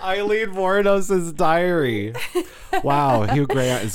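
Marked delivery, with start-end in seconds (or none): 0.0-2.1 movie trailer voice. Pretend. Pitching a movie title.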